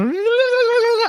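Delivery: high-pitched rolling babble; rapid gibberish. Retold or imitated. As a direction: imitate sped-up speech as a garbled trill. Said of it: "It's like".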